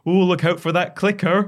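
put-on a teasing Scottish accent, having a laugh; mock Scottish accent, high and loud; jokey Scottish accent. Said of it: "puts on a Scottish accent and goes".

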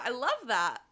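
put-on Australian accent. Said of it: "I don't know why I'm Australian".

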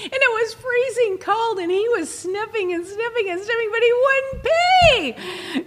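high, laughing retelling; laughing through it. Real, not acted. Telling co-host about the roadside stop, laughing high. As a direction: giggle through the story.

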